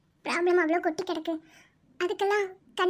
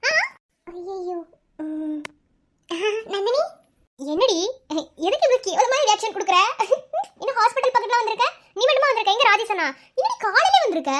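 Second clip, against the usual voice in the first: loud, higher-pitched surprised questioning; 3 semitones higher, 5 dB louder than usual. Acted. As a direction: call out to a friend you didn't expect. Runs into friend at hospital, surprised. (ஆச்சரியமாக, சத்தமாக)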